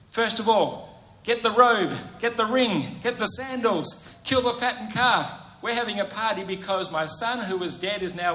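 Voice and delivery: a dad throwing a party for his returned son; joyful father. Acted.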